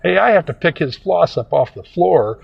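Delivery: mildly worked-up retold objection; wife butting in. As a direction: speak up as the protesting wife. Wife butting in to defend him.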